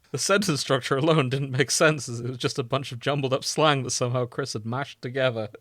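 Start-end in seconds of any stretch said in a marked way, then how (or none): 0.1-2.1 laughing through words. Real, not acted. Laughing while reading.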